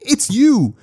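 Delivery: put-on high, stammering startled boy. Boy stunned to meet his hero, high startled stammer. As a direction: stumble over the words in awe and shock.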